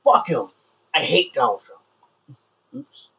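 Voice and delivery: high, slow mocking echo; mocking echo of the guest; sarcastic mock. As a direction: drag it out sarcastically. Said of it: "sarcastic mocking of guest".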